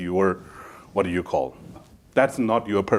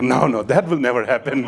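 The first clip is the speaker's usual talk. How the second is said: laughing mock denial; 3 semitones higher, 4 dB louder than usual. Quoting the man's denial, laughing.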